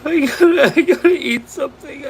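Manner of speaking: scrambling in panic; panicked. Real, not acted. Streamer panicking about what to do, rushed and frightened.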